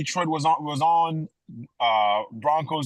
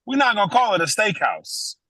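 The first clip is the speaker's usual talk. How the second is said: raised, high-pitched protest; loud objection; 11 semitones higher, 7 dB louder, faster than usual. Real, not acted. Co-host arguing over what counts as a steakhouse, loud high protest. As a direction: cut in loudly and refuse to budge.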